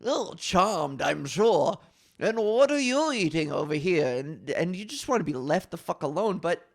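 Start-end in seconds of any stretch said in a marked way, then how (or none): 0.0-4.2 prissy party guest voice. Retold or imitated. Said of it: "even if you didn't do a crazy accent".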